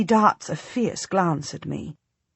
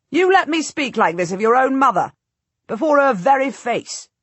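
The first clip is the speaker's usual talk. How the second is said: much higher, louder enraged demand; cracking with rage; 7 semitones higher, 6 dB louder than usual. A narrator's reading. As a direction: voice straining with rage at the insult. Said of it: "his voice cracking with rage".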